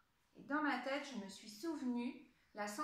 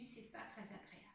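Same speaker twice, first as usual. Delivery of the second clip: quiet; 11 dB quieter, faster than usual. Pretend. Feather tickles her lips.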